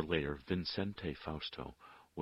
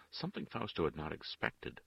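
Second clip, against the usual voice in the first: ordinary delivery, nothing marked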